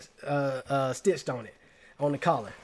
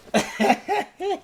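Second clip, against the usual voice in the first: sudden high-pitched laugh; high burst of laughter; 4 dB louder than usual. Real, not acted. Laughing high as he reads out his old nickname.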